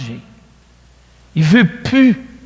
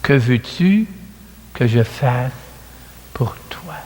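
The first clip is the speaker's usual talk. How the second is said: gentle question; 4 semitones lower than usual. Retold or imitated. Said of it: "Et Jésus lui dit".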